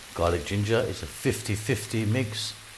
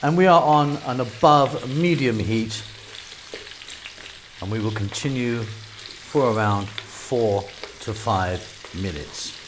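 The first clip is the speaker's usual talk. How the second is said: put-on a dad's try at his kids' London accent, lightly done; attempted London accent. Cooking host copies his children's London accent, lightly put-on. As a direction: cook in a light London accent like your kids. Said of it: "I'll be speaking slightly more like my daughter and my son".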